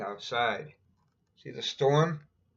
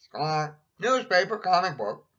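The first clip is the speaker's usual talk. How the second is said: higher, louder squawking parrot; 6 semitones higher, 6 dB louder than usual. Acted. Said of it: "Polly repeats".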